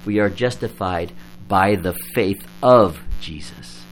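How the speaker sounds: "faith of Jesus" with the weight on "of"; stress on of. Shown as a demonstration. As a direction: make "of Jesus" the point of the sentence. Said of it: "Do you hear the difference?".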